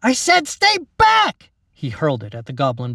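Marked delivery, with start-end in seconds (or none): 0.0-1.5 high, loud, slow yell; furious shout. Acted. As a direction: bellow the command. Mac hurls log at goblin.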